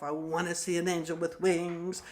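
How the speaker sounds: evenly repeated affirmation to oneself; steady, understated chant-like affirming; self-affirmation. Retold or imitated. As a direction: repeat it like a rhythmic mantra. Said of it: "kind of affirming to myself".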